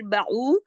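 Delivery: बाऊ with its ऊ drawn out; demonstrated long बाऊ; lengthened oo. Shown as a demonstration. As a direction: stretch the end of बाऊ. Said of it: "ये मद्दा के हरूफ नजर आ रहे हैं".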